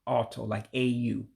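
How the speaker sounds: "auto" opening on an open aw; vowel demonstration. Shown as a demonstration. Teacher illustrates the dotted O, open aw sound. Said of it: "sounds more like an au".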